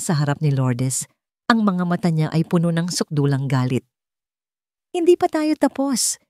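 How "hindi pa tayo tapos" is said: yelled. A narrator's reading. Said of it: "sigaw niya".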